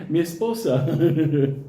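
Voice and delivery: slow, drawn-out adoring hello; mock-romantic, laughing greeting; lovestruck greeting. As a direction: stretch it out like a smitten boyfriend, laughing after. Greets his girlfriend at the door.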